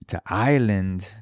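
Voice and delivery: a slipped, half-hearted Irish lilt on Ireland; failed Irish accent. Pretend. Podcaster announcing his trip, lightly mock Irish accent. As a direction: toss off an accidental bad Irish accent. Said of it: "That is not the Irish accent".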